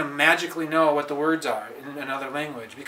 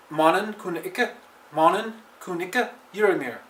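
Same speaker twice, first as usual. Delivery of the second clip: slow careful reading; 3 semitones higher, slower than usual. Shown as a demonstration. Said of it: "it might sound like a robot".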